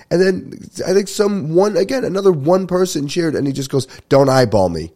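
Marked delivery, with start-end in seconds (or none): 4.1-4.9 loud imitated warning; retold confrontational outburst; mock threatening. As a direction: bark a mock threat at a stranger. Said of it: "He just starts threatening this guy".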